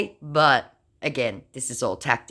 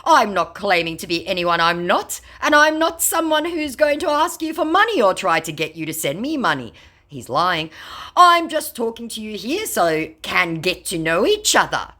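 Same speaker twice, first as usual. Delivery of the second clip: high, louder mock scammer; 7 semitones higher, 4 dB louder than usual. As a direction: ham up the scammer's sweet talk. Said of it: "he turned around and came back with".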